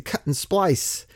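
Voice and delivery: slowed right down, "splice" stressed; drawn out for emphasis; slow deliberate repeat. Shown as a demonstration. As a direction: spell out "Cut and splice" word by word.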